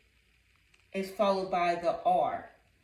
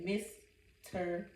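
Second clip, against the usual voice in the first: slow model word; 5 dB quieter, slower than usual. Shown as a demonstration. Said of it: "Once again".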